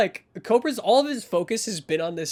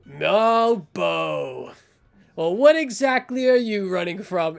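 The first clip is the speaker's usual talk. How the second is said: menacing enforcer; 5 dB louder, slower than usual. Acted. Cobra intercepts the fleeing Bo.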